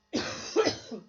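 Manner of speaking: breathy unvoiced cough; real cough. Real, not acted. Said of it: "I'm so sorry for the coughing".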